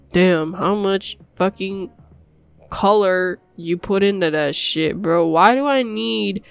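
loud, fed-up ranting at the pill; hammed-up outrage at the colours; mock-aggressive complaint. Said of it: "I'm getting aggressive over this pill".

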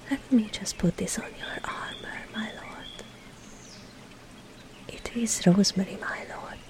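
soft, half-whispered aside; barely voiced, intimate softness; hushed and close. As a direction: murmur it gently, dropping away at the end. Close, hushed moment fixing rosemary on armor.

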